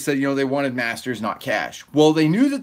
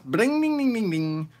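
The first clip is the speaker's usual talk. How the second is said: mock Arizona accent; 7 semitones higher than usual. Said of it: "James Butts".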